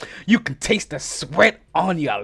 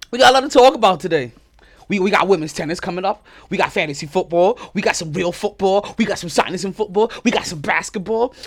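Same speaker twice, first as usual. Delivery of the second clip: fast, loud, higher rapid list; excited rundown; 4 semitones higher, 6 dB louder than usual. Real, not acted. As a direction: rattle it off all pumped up. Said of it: "Your boy's a little bit excited".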